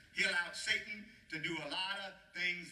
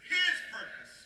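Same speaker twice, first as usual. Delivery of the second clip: higher and louder, breathy push on His; louder call; 11 semitones higher, 6 dB louder than usual. Shown as a demonstration. Pastor leading the louder response, pushed and loud. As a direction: give the church the louder answer. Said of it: "say it louder".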